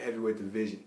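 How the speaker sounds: ordinary talk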